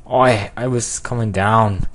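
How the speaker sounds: badly attempted British accent, slowed down. Shown as a demonstration. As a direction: try a rough British accent. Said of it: "give him a British accent".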